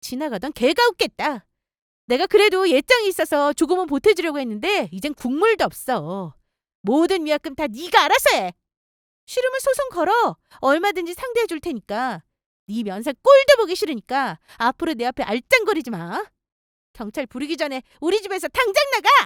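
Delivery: furious rapid-fire rant poured out without a breath. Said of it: "엄청나게 소리 크게 치며 화냈어요".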